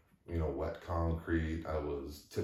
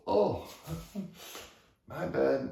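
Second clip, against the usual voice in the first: sheepish apology; 12 semitones higher, 4 dB louder, slower than usual. Retold or imitated.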